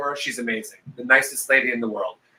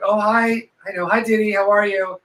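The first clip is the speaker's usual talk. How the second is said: fake sweet greeting; 5 semitones higher than usual. Fake friendly greeting to aunt.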